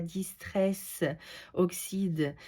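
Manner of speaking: English product name in a French accent. Real, not acted. Crafter naming her ink to viewers, French-accented English. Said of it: "mon accent anglais qui est pas top top".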